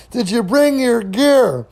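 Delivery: slow, high, drawn-out question; emphatic repeat. Retold or imitated. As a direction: spell it out slowly for someone who missed it. Repeats question after baffled reply.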